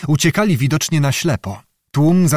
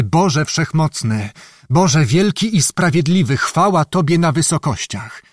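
fervent prayer; 3 semitones higher than usual. Acted. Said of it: "przerwał mu modlitwę".

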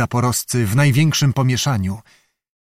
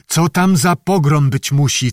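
calling out eagerly; 3 semitones higher than usual. Acted. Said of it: "wołał do Zachara".

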